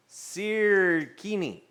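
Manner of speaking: slow, drawn-out "Sirkini" said like a question; mangled word. Shown as a demonstration. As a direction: stretch "Sirkini" slowly, puzzled. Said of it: "I don't even know what I'm saying anymore".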